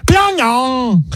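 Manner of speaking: "Pyongyang" yelled high in a put-on Korean accent; mock-Korean shout; screamed Pyongyang. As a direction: scream "Pyongyang" like a proud announcer. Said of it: "they always scream it when they say it".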